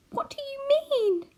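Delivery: aghast high whisper, slow. A narrator's reading. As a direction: gasp it out in horror under the breath. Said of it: "exclaimed Homily, aghast".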